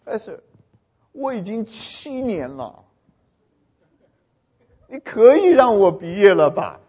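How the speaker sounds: slow, hesitant student addressing a professor; lightly acted student's plea; pleading senior student. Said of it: "他就跟教授讲".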